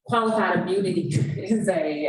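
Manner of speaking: laughing. Real, not acted. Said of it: "I laugh, but it's absolutely not funny".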